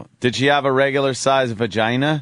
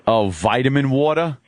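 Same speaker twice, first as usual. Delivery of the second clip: cheesy American accent. Shown as a demonstration. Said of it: "make it sound really cheesy, dirty American".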